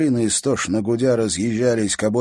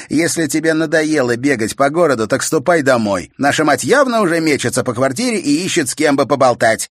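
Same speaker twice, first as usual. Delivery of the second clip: louder, higher scornful advice; mocking; 7 semitones higher, 8 dB louder than usual. A narrator's reading. Brother mockingly telling sister to go home. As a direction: send her off.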